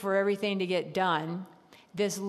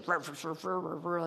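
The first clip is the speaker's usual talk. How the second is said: imitated angry muttering; 3 semitones lower, 4 dB quieter than usual. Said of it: "talking under her breath".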